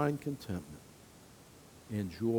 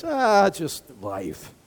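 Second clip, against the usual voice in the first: shrugging; much slower than usual. Retold or imitated. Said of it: "We're like".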